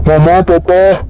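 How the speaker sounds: calling out. Acted. Son arriving home calling for his parents, loud call. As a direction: shout for your parents as you come in.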